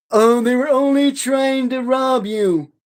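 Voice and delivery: hammed-up imitation of a weepy mother; mocking crying mom. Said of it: "was crying her little boo-boo tears out".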